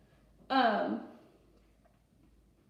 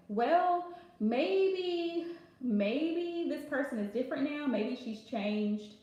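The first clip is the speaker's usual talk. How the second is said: drawn-out, wavering self-doubt, trailing down; doubtful; slower than usual. Retold or imitated. Recalling doubts about the blocked friend, doubtful. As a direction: muse aloud, half-convincing yourself. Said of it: "I doubted myself at first too".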